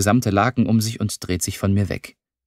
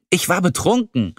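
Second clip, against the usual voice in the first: high, firm stress on betrunken; insist, landing on betrunken; emphatic; 10 semitones higher than usual. A narrator's reading. Lilly, denying her feelings, insists firmly she was drunk. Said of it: "stellt sie mit Nachdruck fest".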